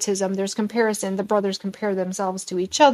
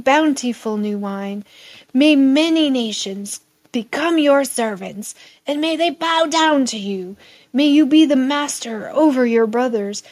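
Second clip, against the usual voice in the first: a lightly voiced old father, raised and ceremonial; solemn old father's blessing; 3 semitones higher, 3 dB louder than usual. Blind Isaac blessing his son Jacob, solemn raised blessing. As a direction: bless your son like a proud old patriarch.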